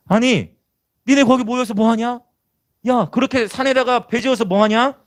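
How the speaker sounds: high-pitched scoffing questions; mocking crowd. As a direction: needle them as a jeering onlooker. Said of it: "얼마나 많은 상처를 받았겠어요".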